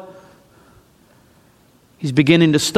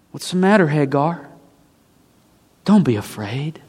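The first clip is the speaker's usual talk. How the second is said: gentle angel; 4 semitones lower, 5 dB quieter than usual. Acted. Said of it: "the angel comes to Hagar and says".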